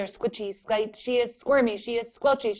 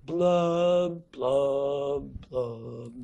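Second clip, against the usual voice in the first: blub blub; 6 semitones lower, much slower than usual. Shown as a demonstration. Teacher demonstrating the fish's sinking blub. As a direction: let each blub sink down. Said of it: "pout pout fish goes blub".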